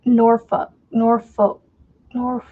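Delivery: trying out "Norfolk" with the L dropped; unsure pronunciation. Real, not acted. Nebraska resident who can't get it right, testing "Norfolk". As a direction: attempt "Norfolk" as NOR-fuh, NOR-foh, then break off. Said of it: "I can never get that one right".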